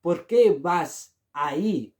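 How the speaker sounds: ¿Por qué vas ahí? said slowly; slow model phrase. Shown as a demonstration. Teacher slowly models ¿Por qué vas ahí? for learners. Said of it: "the answer is".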